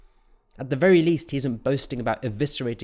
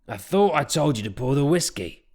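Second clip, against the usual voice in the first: irritated, higher and a bit louder; irritable; 4 semitones higher, 4 dB louder than usual. Acted. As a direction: snap at her impatiently. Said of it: "Talbot said irritably".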